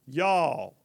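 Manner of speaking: a Southern mama throwing up her hands; Southern mama exasperation. Retold or imitated. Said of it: "a Southern mama just looks at something and goes".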